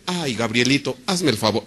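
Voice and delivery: soft, low coaxing request; mock timid pleading; mock gentle plea. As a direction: ask sweetly, almost begging. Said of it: "No, no, no, no".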